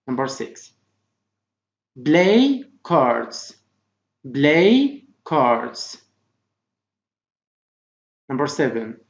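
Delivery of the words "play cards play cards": very slow, separated words; slow model reading. Shown as a demonstration. Teacher reading vocabulary for pupils to repeat, slowly. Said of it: "Try to repeat after me".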